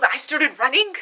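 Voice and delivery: a hint of mom's worked-up voice; mom impression. Mom recounts the chase, lightly imitated excited voice. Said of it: "that's how she talks".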